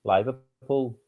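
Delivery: demonstrated Scouse place names; Liverpool accent. Shown as a demonstration. Co-host coaching a learner toward Liverpool, demonstrated Scouse accent. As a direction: show how a Scouser says it. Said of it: "You're getting there".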